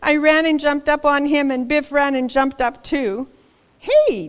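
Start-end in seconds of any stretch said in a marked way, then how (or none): 3.8-4.3 laughing hey. Acted. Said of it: "Dad laughed".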